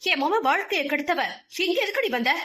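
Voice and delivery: scornful accusing voice climbing up; haughty rage. Acted. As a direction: lash out at the unwanted girl. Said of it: "ஓங்கி ஆங்காரமாய் ஒலித்தது".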